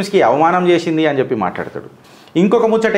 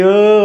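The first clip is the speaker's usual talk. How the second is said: short hammed-up louder wail of "ఓ"; mock wail; 3 semitones higher, 5 dB louder than usual. Mocking the leader's fake crying, a hammed-up wail. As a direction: fake a theatrical cry on "ఓ". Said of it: "అని ఏడ్చినావు".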